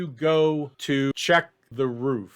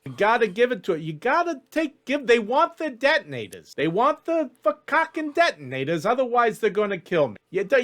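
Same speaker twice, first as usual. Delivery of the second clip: high, pleading elf hostage; worked-up elf arguing in a high voice; desperate elf schemer; 6 semitones higher than usual. Acted. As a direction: beg your old pal to save you. GM voices Ellis begging Jack.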